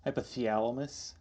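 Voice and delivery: teasing Minnesota twang on "Hypothalamus"; Minnesota accent. Retold or imitated. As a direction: mimic it as a Midwesterner, stretched vowel. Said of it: "It's like a Minnesota thing".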